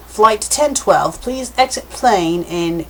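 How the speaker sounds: slow, measured flight announcement; lightly voiced cabin announcer, drawn out; intercom announcement. Intercom addressing passengers of flight ten twelve, slow announcer voice.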